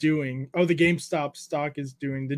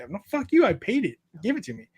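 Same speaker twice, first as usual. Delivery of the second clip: mock indignant retort; 3 semitones higher, faster than usual. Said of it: "it's not me being a Karen".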